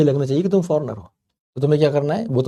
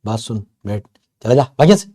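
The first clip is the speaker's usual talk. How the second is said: rough street Hindi; 6 dB louder than usual. Shown as a demonstration. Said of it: "अब हम वो थोड़ी बोलते हैं".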